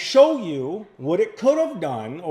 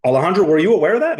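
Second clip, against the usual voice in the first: incredulous; 8 dB louder, much faster than usual. Real, not acted. Host presses client on hidden cost.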